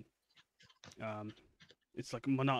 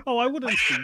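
laughing mimicry; 14 semitones higher, 15 dB louder than usual. Mocking the player's line, laughing.

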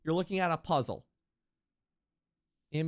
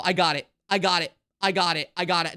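louder, eager repeated claim of victory; excited triumph; 3 semitones lower, 5 dB louder, faster than usual. Real, not acted. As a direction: chant it like you just cracked it. Streamer thinks puzzle is solved.

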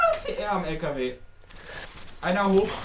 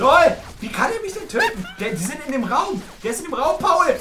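higher, loud excited yelling; excited shouting; 10 semitones higher, 6 dB louder than usual. Real, not acted. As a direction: yell at the screen in disbelief. Teammate killed, yelling at the screen.

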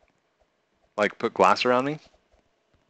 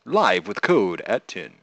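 louder, slow announcer read; mock news anchor; 2 semitones lower, 6 dB louder, slower than usual. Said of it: "Code, you're on the news".

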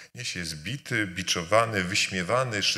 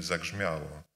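dismissive shrug; 4 semitones lower, 6 dB quieter than usual. Retold or imitated. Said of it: "i mówimy".

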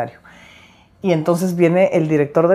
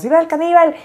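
retold battle cry; 12 semitones higher, 6 dB louder than usual. Kids yelling before jumping off roof.

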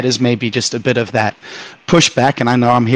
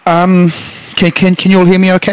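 windy, echoing mic sound; speaking through wind tunnel noise; 7 semitones higher, 4 dB louder than usual. Real, not acted. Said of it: "it sounds like you're in a wind tunnel".

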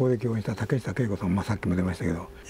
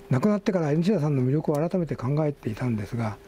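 higher, steadier reading voice than in chat; article read-aloud; 4 semitones higher than usual. Real, not acted. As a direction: read the tribute out to the listeners.

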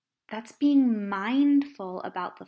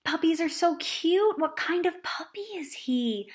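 interested listener; 6 semitones higher than usual. Acted. Interested listener asking about dog.

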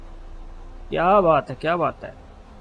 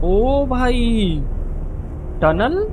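startled cry; 6 semitones higher, much slower than usual. Real, not acted. Sudden tunnel ahead.

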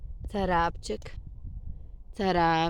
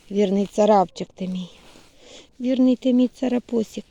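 loud praise; 9 dB louder than usual. Real, not acted. Praising loyal cat.

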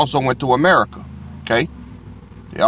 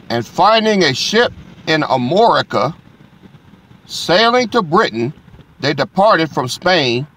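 preacher proclaiming scripture to the congregation; scripture reading; 2 semitones higher than usual. Acted. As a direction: lift the verse like a proclamation. Reads scripture aloud to congregation.

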